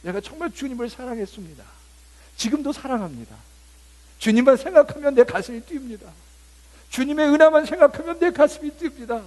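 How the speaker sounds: rising to a high, loud passionate confession; fervent answer. Pretend. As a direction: build from tender to fervent. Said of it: "그렇게 대답하실 수 있으시겠어요". (높고 크게 벅찬 고백)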